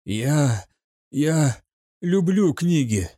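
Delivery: nervous stutter, я... я; stammering cadet. A narrator's reading. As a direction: stammer on я, я before люблю книги. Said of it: "заикнулся кадет". (заикаясь, я, я люблю книги)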